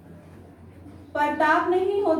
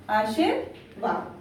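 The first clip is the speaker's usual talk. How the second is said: drawn-out, syllable by syllable, आशीर्वाद; slow careful word; 7 semitones lower, 4 dB quieter, much slower than usual. Shown as a demonstration. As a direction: say आशीर्वाद slowly so children catch each sound. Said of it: "अक्सर बच्चे आशीर्वाद की spelling". (आशीर्वाद धीरे-धीरे, हर अक्षर साफ़)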